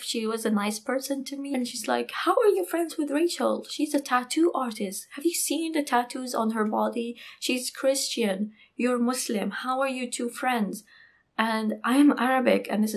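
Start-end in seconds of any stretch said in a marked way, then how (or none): 2.1-10.8 mock incredulous challenge. Friend questioning a friendship with Rachel, retold in mild disbelief. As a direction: imitate a disapproving friend's disbelief.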